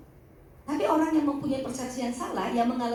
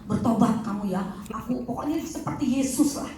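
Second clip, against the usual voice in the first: imitated self-styled savior. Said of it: "dia jadi juru selamat".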